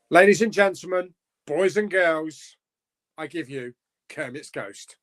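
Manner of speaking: introducing a chat legend grandly; announcer. Acted. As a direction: present him like a ringmaster.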